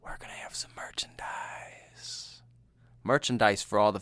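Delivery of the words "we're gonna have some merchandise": secretive whisper; hushed merch teaser. Acted. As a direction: let them in on a secret.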